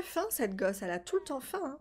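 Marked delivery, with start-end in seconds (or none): none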